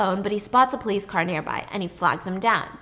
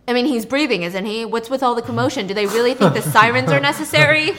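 irritated complaint; 8 dB louder than usual. Retold or imitated. Nick complains in ambulance.

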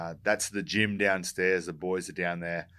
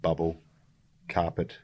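slow word list; 2 semitones lower than usual. Shown as a demonstration. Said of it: "I just want you to remember these five things".

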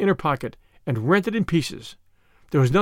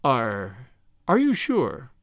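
hesitant, timidly eager question; timid eagerness; 3 semitones lower, much slower than usual. A narrator's reading. Small priest questions the triumphant robber, timidly eager. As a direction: start low and halting, then lift eagerly. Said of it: "with the timid eagerness".

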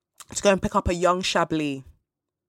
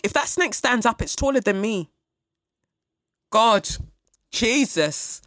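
higher and louder, building to a cry of God; raised, loud comic alarm; alarmed exclamation; 5 semitones higher, 4 dB louder than usual. Real, not acted. Alarm at snake's height.

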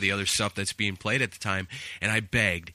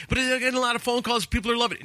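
high, hurried pleading; eager protest; 11 semitones higher, much faster than usual. Retold or imitated. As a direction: imitate arguing back excitedly. Acting protest to station boss.

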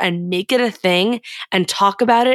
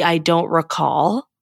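evasive; 2 semitones lower, slower than usual. Retold or imitated. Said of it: "she tried to pull the".

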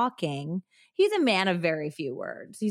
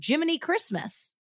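Buddy's exclamation; 9 semitones higher than usual. Acted. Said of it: "That was so good".

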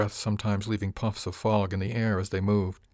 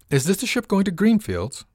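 calling up; 11 semitones higher, 6 dB louder than usual. Acted. Dubois called up to captain.

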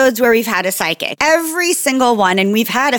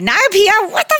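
shocked disbelief; 10 semitones higher, faster than usual. Retold or imitated. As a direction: voice jumps high in shock. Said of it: "I was like".

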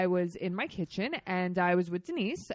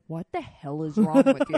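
louder, baffled snap at a friend; exasperated friend; 7 dB louder than usual. Retold or imitated. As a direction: demand to know what's wrong, loudly. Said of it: "And she's like".

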